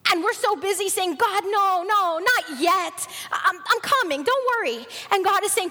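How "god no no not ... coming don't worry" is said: higher-pitched mock brush-off; lightly acted impatient excuse; dismissive stalling. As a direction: put Him off like a busy kid. Acted busy people putting God off.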